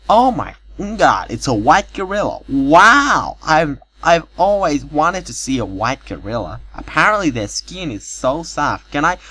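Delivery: put-on girl squealing in delight at seeing the white gorilla; thrilled squeal. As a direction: gush like a fan meeting her idol.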